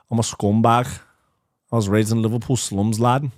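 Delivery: put-on Liverpool accent, a bit thicker; Scouse accent. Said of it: "keep working on the Scouse accent".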